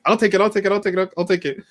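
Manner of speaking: high-pitched, hammed-up eager repeats; mock a wrestler jumping at the chance, high and insistent; eager volunteer imitation. Wrestler eagerly grabbing a title shot.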